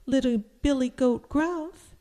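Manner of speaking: high, loud little goat voice; high-pitched small goat answering the troll; smallest goat. A narrator's reading. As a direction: pipe up as the little billy goat. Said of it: "said the smallest goat".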